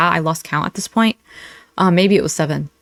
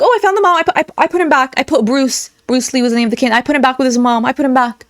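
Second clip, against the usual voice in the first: higher, flustered and stammering, settling down toward the end; mock flustered excuse; 5 semitones higher, faster than usual. Commentator mocking the streamer's hasty excuse about the mom, flustered. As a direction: play her scrambling to cover herself. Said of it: "she's like".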